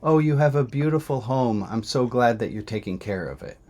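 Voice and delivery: gracious delivery woman. Retold or imitated. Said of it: "she says".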